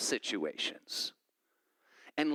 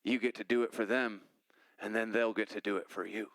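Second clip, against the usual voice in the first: Louisiana voice; 5 semitones lower than usual. Retold or imitated. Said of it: "I have to inflect his voice".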